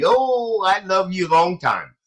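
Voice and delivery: high put-on Asian-accented English; mock Asian accent. Host imitates Filipino speech in a mock Asian accent. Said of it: "And they talk like that".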